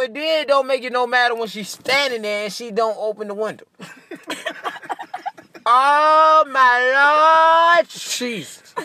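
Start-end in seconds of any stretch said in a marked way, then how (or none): 5.7-8.7 drawn-out, loud, very slow exasperated cry; loud, very slow exasperated plea to the Lord. Real, not acted. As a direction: stretch it out like you've had enough. Exasperated exclamation about drive-thru.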